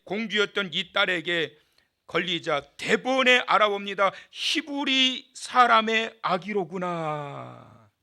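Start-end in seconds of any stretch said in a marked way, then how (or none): 4.3-7.9 slow recognition. Shown as a demonstration. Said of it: "대번에 알아봤어요".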